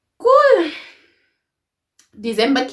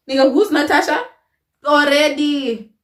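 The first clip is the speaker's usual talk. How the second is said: mock suspicious; 6 semitones higher than usual. Mock outrage at name slip.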